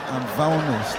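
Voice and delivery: imitating her mangled "famished"; mispronounced famished. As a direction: say "famished" as "vow-nesht". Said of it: "You mean famished?".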